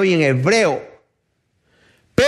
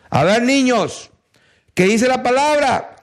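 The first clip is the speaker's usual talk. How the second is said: higher-pitched children's teacher, lightly played; 4 semitones higher than usual. Preacher treating listeners as children, lightly voiced teacher to children. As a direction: quiz them lightly as if they were small children. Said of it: "aquí hay que ser bien niños".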